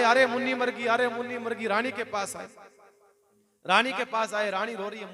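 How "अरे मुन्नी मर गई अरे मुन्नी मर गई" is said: mock wailing. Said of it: "महाराज रोते रोते आए".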